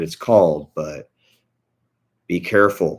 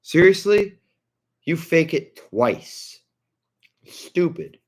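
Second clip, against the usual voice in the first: much higher, louder disbelief; a much higher, exasperated scoff at a streamer; exasperated rant; 11 semitones higher, 4 dB louder, slower than usual. Real, not acted. Ranting at faking streamer.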